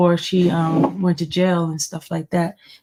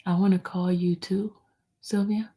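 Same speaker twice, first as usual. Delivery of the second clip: whisper; 9 dB quieter than usual. Real, not acted. Aside whispered to someone nearby.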